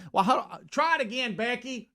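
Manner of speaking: lightly imitated high-pitched call in the confusion; retold calling out to Becky. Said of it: "there's a lot of confusion".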